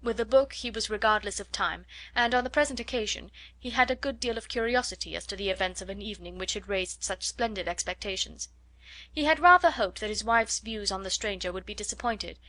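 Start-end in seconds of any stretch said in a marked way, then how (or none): none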